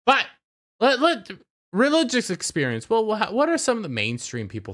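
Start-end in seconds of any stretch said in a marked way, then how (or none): 0.1-2.9 lightly voiced high gushing creator; a quick dreamy mock of his praise; mocking Dave Filoni. Vlogger mimicking Filoni saying religious experience, mild parody. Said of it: "And he talks like this".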